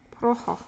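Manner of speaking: "Praha" as PRA-ha with a breathy H; local pronunciation. Shown as a demonstration. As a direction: say "Praha" the Czech way, two open vowels. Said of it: "apparently it's Praha".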